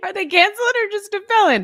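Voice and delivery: very high, talking through laughter. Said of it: "I'm laughing at what Elise just said".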